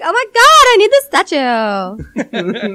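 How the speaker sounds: put-on squealing valley girl; gushing high then drawn out.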